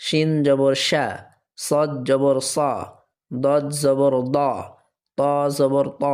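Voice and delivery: slow letter-by-letter spelling, final "ঝা", "সা", "মা" held long; measured recitation drill, stretching each closing syllable like "না"; jabar pronunciation drill. Shown as a demonstration. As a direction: spell it out slowly, lengthen the last "ইয়া". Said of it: "এটা হচ্ছে জবরের উচ্চারণ".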